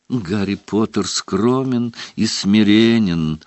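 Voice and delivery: reverent elf. Acted. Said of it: "почтительно произнёс Добби".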